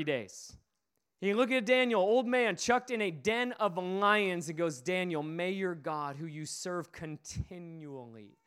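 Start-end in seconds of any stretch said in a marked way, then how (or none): 4.8-8.4 hushed farewell. Acted. King farewell to Daniel.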